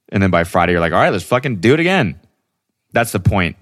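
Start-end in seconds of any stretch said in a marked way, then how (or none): 0.9-2.2 higher, mock-eager rallying; rally the friends for another night out; gung-ho party mood. Acts out being eager to drink.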